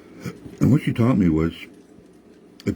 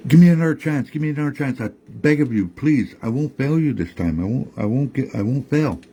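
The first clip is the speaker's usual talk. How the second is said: high pleading tree voice; 5 semitones higher than usual. Acted. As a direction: beg her for another chance, pitched up. Tree begs Nokomis.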